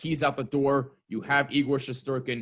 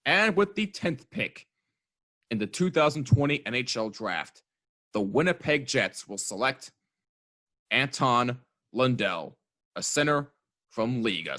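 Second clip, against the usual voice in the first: draft announcer. Acted. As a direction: announce the pick like the commissioner. Mock draft pick announcement.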